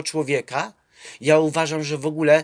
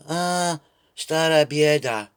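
mock weary sigh; slower than usual. Quoting the young man.

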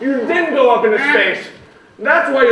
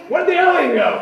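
shouting; 6 semitones higher than usual. Pretend. Calling out loudly.

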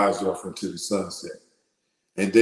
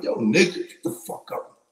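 rough version. Shown as a demonstration. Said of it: "I ain't gotta be like".

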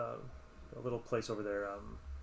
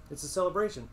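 raised, eager pitch; keen declaration; 7 semitones higher, 4 dB louder than usual. Acted. Innkeeper telling guests about the beacon festival, keen declaration. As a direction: declare it proudly, a little high.

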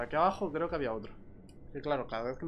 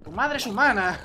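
shouting; 7 semitones higher, 10 dB louder than usual. Real, not acted. Yelling insult at mob.

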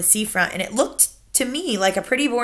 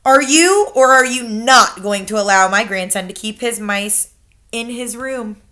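grandmother; 2 semitones higher, 6 dB louder than usual. Acted. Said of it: "my grandmother said".

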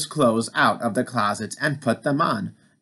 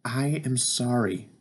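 gasped; 5 dB quieter than usual. Acted. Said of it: "gasped Frog".

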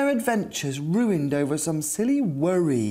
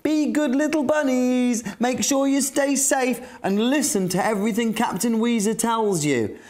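fond parent farewell; 5 semitones higher than usual. Acted. Families say goodbye in story.

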